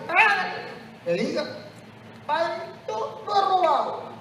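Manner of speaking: put-on high, meek little old lady voice; old woman confessing. Old woman confessing to the priest, high and timid.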